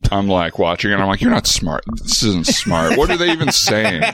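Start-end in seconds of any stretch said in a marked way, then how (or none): 1.2-4.0 retold scoffing, pitch jumping up; mildly indignant heckling of a film; mock defensive. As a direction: grumble back at the movie, half in jest. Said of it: "So you get very defensive".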